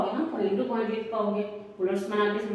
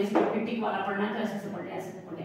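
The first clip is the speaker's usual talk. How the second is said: mocking the lazy tick-box student, fading to a mutter; lightly voiced lazy student; mock careless student. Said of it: "ऐसे ऐसे नहीं पढ़ेंगे".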